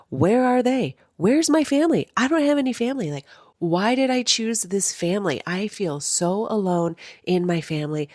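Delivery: high, pleading cries about a lost family; anguished plea. Retold or imitated. A woman reliving abandonment by her family, pleading high.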